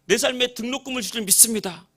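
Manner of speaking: fervent, high-pitched loud praying voice; very loud prayer. Retold or imitated. Young man praying at dawn for his tuition, very loud and fervent. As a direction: cry out to God with full conviction. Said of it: "엄청 큰 소리로".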